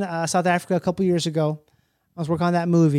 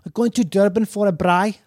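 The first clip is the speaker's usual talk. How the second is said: bad Afrikaans accent. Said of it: "a really bad version of it".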